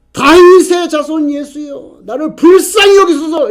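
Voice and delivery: high, drawn-out shout for mercy; crying out. Retold or imitated. Blind beggar begging Jesus for mercy, crying out. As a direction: call out loudly, stretching the name. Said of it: "이렇게 외쳤습니다".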